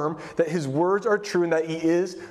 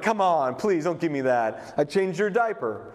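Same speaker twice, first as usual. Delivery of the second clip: mock dismissive. Imitated hometown crowd brushing him off.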